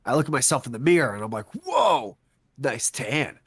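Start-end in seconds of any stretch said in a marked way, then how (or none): 1.6-3.4 mock impressed whoa. Admiring self in mirror.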